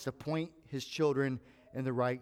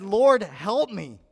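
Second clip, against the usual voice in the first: slow, louder plea with a touch of tears; mild imitated crying plea; retold desperate prayer; 5 semitones higher, 10 dB louder, slower than usual. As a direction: beg for help as if near collapse. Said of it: "I was physically crying".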